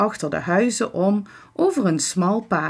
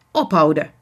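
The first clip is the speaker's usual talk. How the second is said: kort, streng bevel; streng fluisterend; 2 semitones lower, 5 dB louder, faster than usual. A narrator's reading. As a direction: kap het streng af. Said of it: "fluistert Victor streng". (streng gefluister)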